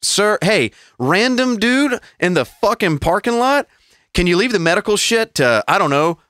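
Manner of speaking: sarcastic plea to a meddling bystander; imitating exasperated staff. Hospital staff telling off the random man, mock exasperation. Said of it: "And they were like".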